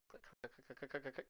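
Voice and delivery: rapid tongue clicks. Pretend. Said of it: "I say".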